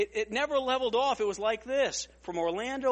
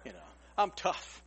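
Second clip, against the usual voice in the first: low, soft, faux-macho voice; low, softer, lightly hammed tough guy accepting a dare; mock tough guy; 11 semitones lower, 8 dB quieter than usual. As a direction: puff up like you're not scared. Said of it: "and I said".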